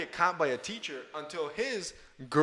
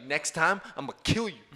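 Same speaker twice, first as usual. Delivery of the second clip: movie tough guy; 3 semitones higher than usual. Retold or imitated. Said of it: "they would always grab the opponent by the neck and be like".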